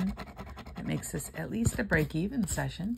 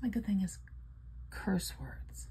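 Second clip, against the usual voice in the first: whisper; 3 semitones higher, 5 dB quieter, slower than usual. Pretend. Confiding secret good thing.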